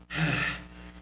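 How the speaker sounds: winded exhale after a beatdown; heavy acted sigh of exertion; imitated panting breath. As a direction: huff like a tired-out wrestler. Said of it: "and then he's like".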